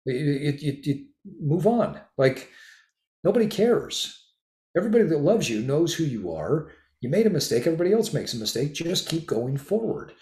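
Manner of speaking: high, emphatic shaking-off of a mistake; exasperated pep talk. Retold or imitated. Telling a friend a screw-up doesn't matter, high exasperated pep talk. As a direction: snap them out of self-pity. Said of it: "I'm like".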